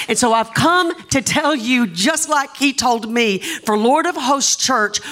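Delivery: slow, declaring preacher; emphatic preaching. Real, not acted. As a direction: announce it to the whole congregation. Preaches the word to church.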